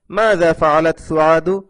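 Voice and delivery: মাযা ফাআলাত সুআদু read slowly, word by word; slow for the class. Shown as a demonstration. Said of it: "আপনারা ভালোভাবে ধরে নিন". (ধীরে ধীরে পড়ে শোনানো)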